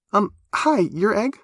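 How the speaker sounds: put-on high, quick, chatty young woman; Black Forest greeting Whippersnap, high and eager; eager high girl voice. A narrator's reading. Black Forest greets Egg shyly.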